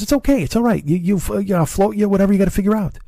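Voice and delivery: high, reassuring neighbor voice, imitated; Lou impression. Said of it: "your ears are bleeding from my Lou".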